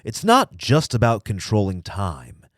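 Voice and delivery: slow, deliberate storyteller delivery; measured, portentous narration; mock-solemn story reading. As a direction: savor each phrase like a grand tale.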